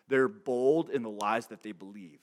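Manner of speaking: loud, forceful declaration; emphatic preaching. Real, not acted. Preacher warning the congregation about scoffers, loud and emphatic. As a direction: drive it out loudly, hitting BOLD. Preacher hammers a key point.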